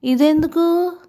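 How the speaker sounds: stunned question. A narrator's reading. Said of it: "తెల్లపోయి".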